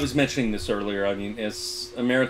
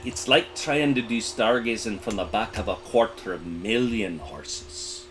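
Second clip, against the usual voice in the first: leaned-in confiding; 2 semitones lower than usual. Retold or imitated. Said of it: "he leaned in and he said".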